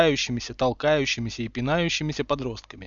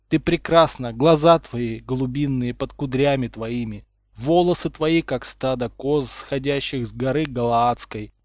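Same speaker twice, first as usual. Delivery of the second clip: slow, mock-solemn love verse; passionate declamation. A narrator's reading. Potter wooing Umbridge on one knee, declaiming. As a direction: declaim it like scripture to a beloved. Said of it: "страстно промычал Поттер".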